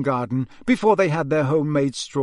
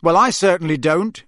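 sanctimonious; 4 semitones higher, 6 dB louder than usual. Acted. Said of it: "said Percy sanctimoniously".

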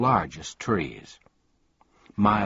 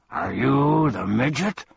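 high, rising, louder question; hint of uncertainty; 5 semitones higher, 5 dB louder than usual. A narrator's reading. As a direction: ask it not quite sure. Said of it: "with a hint of uncertainty in his voice".

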